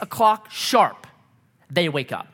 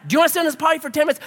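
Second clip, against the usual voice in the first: laughing exasperation; 8 semitones higher, much faster than usual. Retold or imitated. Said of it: "I'm like".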